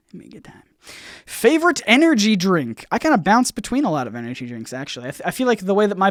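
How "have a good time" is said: mock secret whisper, barely voiced. Streamer whispering a joke secret to his chat.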